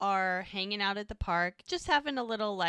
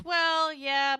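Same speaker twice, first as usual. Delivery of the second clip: high, louder drawn-out hedge; acted reluctant admission, pitched up; hedging; 9 semitones higher, 7 dB louder than usual. Jack admitting it to his friend Mike, high-pitched hedging.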